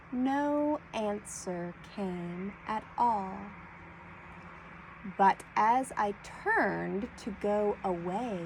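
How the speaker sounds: slow down and let each blend word land. Shown as a demonstration. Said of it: "I'll read it a little bit slower this time".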